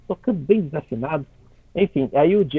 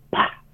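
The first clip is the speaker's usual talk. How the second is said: sudden percussive "pá"; short vocal cymbal hit; imitated cymbal crash. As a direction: mimic clashing cymbals in one burst. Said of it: "sabe aquele par de prato assim".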